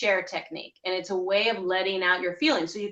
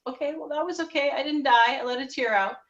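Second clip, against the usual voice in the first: 1 mild relieved surprise; 5 semitones higher than usual. Shown as a demonstration. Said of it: "And then you're gonna just".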